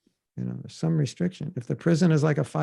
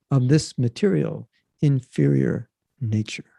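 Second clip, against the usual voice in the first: dramatic reading; 4 dB louder than usual. Shown as a demonstration. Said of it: "I'll read it with my dramatic voice".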